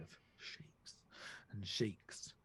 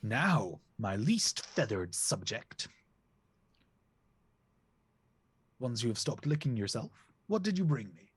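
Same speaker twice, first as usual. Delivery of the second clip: goose king; 3 dB louder than usual. Acted. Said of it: "Goose King turns to me and goes".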